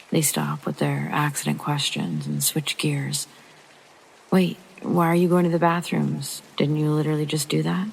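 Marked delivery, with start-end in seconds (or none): 4.3-7.9 incredulous, quick and louder; puzzled friend, half laughing; surprised question. Acted.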